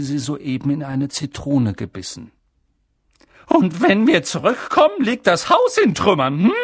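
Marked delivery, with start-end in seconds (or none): 3.5-6.5 high, loud grumble of a sour aunt; irritated aunt snarling at her husband; grumpy snarl. Acted. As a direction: growl it out, suspicious and cross. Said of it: "raunzte sie".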